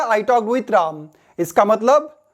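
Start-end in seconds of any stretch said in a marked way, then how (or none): 0.0-1.1 very slow, careful read, stress on talked; slow example sentence. Shown as a demonstration. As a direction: lay each word out for learners. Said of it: "American English है". (धीमे, साफ़ उदाहरण वाक्य)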